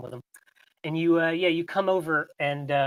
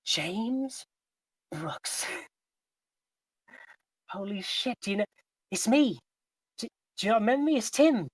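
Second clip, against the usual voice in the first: put-on eager cracking teen voice; 6 semitones higher, 3 dB quieter than usual. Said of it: "he's talking".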